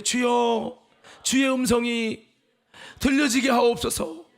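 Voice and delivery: loud, slow congregational cry; crying out in prayer. Real, not acted. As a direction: call out to the Lord, drawn out. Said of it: "한번 외쳐봅시다".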